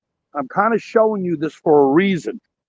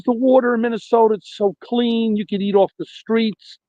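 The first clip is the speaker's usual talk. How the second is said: higher mock woman's voice; lightly voiced lady, pitched up; a hint of a woman's voice, raised pitch; imitating the woman; 4 semitones higher than usual. Caller voicing the woman he met.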